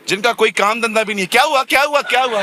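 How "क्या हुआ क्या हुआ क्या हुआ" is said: higher, louder eager asking; nosy bystander. Pretend. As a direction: play the meddler butting in.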